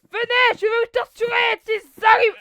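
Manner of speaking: high, loud hammed-up menace; mock villain threat. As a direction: play the cartoon torturer.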